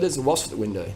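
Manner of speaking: ordinary talk, nothing marked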